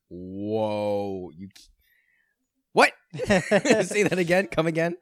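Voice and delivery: high, loud, incredulous challenge; drawn-out whoa building to loud, high questions; mock outraged disbelief. Friends putting David on blast, mock-shocked.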